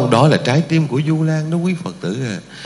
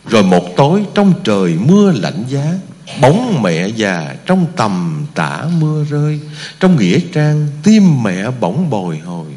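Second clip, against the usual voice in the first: recited poem. Acted.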